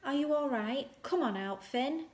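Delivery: high, loud calls across the rocks; calling out. Acted. Children searching the rocks call out for their missing friend, loud and high. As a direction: shout his name over the beach, worried. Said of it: "calling out".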